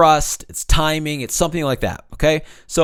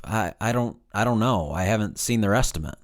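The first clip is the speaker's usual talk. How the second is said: halting, softer puzzled answer; confused voice; 3 semitones lower, 4 dB quieter than usual. Shown as a demonstration. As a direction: trail off as if you truly don't know. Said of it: "in a confused voice".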